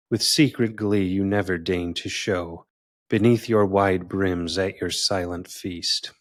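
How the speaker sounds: measured, declaimed sestina; deliberate verse reading with a firm attack on each line; poetry reading. Acted. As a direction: recite it formally, each line falling at its close. Reads own sestina aloud.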